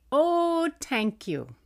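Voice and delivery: put-on very high, polite little-boy voice; sweet toddler reply. Mom imitating her son answering Santa, very high sweet child voice. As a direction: thank Santa like a shy two-year-old. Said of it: "you simply replied".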